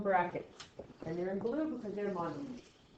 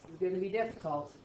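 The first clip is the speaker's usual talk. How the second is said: facetious; 3 semitones lower, faster than usual. Acted. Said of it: "being facetious".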